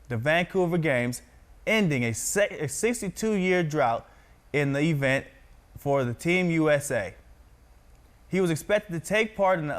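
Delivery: projected, evenly paced news anchor read. Shown as a demonstration. Practises reading news aloud.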